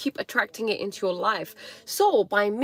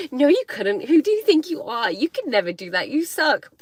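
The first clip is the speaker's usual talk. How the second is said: higher, louder mocking inner critic; 4 semitones higher, 4 dB louder than usual. Insecure voice taunting her, mocking and higher. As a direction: sneer at yourself like your own doubt. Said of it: "the insecure is like".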